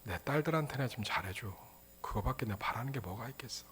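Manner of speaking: hushed, tender words that fade away; touching plea. Acted. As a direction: plead quietly as a father for his daughters. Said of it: "근데 너무 감동돼".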